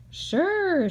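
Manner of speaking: hammed-up cheerful yes; confident Mike. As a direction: answer the boy cheerfully. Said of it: "said Mike".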